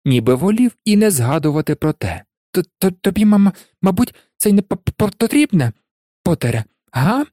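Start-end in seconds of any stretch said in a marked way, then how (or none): 2.5-7.2 high, heavily stuttering professor; jittery, broken-up words in a raised voice; Quirrell. A narrator's reading. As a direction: stammer nervously through the question. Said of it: "Він нервово реготнув".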